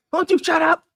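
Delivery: put-on grumpy old man. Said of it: "That's gonna be me".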